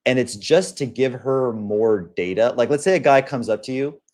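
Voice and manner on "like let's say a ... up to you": ordinary delivery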